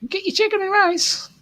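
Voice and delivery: high, bright sing-song ad jingle; imitating a catchy ad. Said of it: "here you get those Shopee ads".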